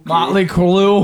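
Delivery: "Motley Crue" said slowly with a clear R; corrected name. Shown as a demonstration. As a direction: spell out "Crue" carefully.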